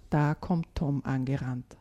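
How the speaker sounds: put-on calm storyteller reading a children's tale; gentle read-aloud storytelling; story narration. A narrator's reading. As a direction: read it like a bedtime story for kids.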